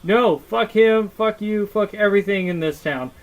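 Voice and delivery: ex-wife refusing the friend, raging; angry ranting. Retold or imitated. Ex-wife ranting at husband about his friend, angry. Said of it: "And she's like".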